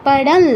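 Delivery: "পাড়াল" with the final ল held through the nose; nasalized pronunciation. Shown as a demonstration. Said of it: "নাসিকার কিন্তু অবশ্যই প্রয়োগ করতে হবে". ("পাড়াল", শেষের ল নাসিক্য উচ্চারণে)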